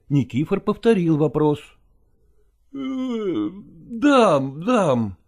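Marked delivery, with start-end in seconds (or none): 2.7-5.2 drowsy mumbled answer half asleep; a touch of a sleepy mumble. Acted. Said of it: "ответил сонным голосом Петрушка".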